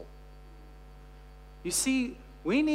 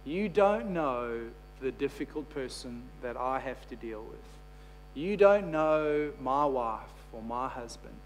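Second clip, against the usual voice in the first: doubting listener; 5 semitones lower, 4 dB quieter than usual. Pretend. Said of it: "you might listen to this this morning and go".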